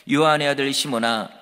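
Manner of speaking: Jesus solemnly addressing Simon Peter, lightly voiced; Jesus calling Peter. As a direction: call him by his old name with weight. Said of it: "베드로한테 이런 질문을 하십니다".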